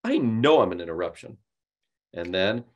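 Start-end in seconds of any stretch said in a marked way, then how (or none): 0.0-1.4 "I" stressed and "I know I'm an interruption" held flat and hard; hard, flat self-indictment. Shown as a demonstration. Coach demonstrating the wrong opener on a cold call, hard and flat. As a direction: declare it flatly, like a confession of guilt. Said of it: "from that hard, flat self-indictment".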